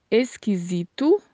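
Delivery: "Esquisito" with a voiced Z in the middle; Portuguese pronunciation. Shown as a demonstration. Spanish teacher shows learners the Portuguese word, "Esquisito" with a Z sound. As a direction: say "Esquisito" slowly, the S buzzing as Z. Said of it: "pronunciado dessa maneira em português".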